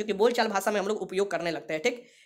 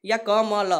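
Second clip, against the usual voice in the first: slow syllable split; much slower than usual. Shown as a demonstration. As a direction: slowly break it into parts: क, मल. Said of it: "कमल को तोड़िएगा". (धीरे-धीरे शब्द तोड़कर बोलना)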